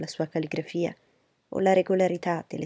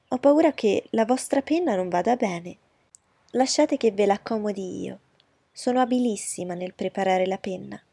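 fawning society lady; 3 semitones higher, 5 dB louder than usual. Acted. Miss Bingley voiced.

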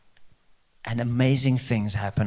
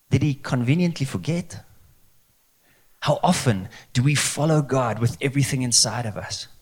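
ordinary talk

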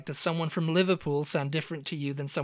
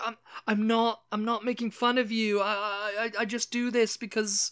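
imitated embarrassed stammer, pitched up; retold flustered excuse; 5 semitones higher than usual. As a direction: stammer an apology, mildly flustered. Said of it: "she got all embarrassed about it".

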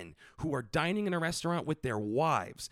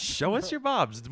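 high, loud, slow call; drawn-out loud plea; 9 semitones higher, 4 dB louder, slower than usual. Acted. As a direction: stretch it out, hamming. Echoing the plea.

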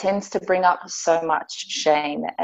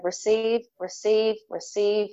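soothing inner voice. Retold or imitated. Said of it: "my body was just saying".

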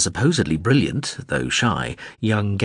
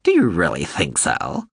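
bright drone voice; 3 semitones lower than usual. A narrator's reading. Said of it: "Morin Skell said brightly".

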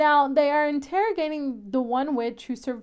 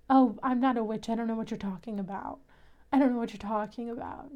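softer mock-innocent denial; playing dumb; 3 semitones lower, 5 dB quieter, faster than usual. Mimicking the witch's denials to the hunters, playing dumb. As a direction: imitate someone feigning ignorance, quietly. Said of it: "she is still playing dumb".

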